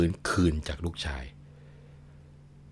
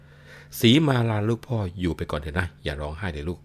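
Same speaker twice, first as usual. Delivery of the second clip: comforting father; slower than usual. Acted. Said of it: "พอปลอบลูกสาวเสร็จแล้ว".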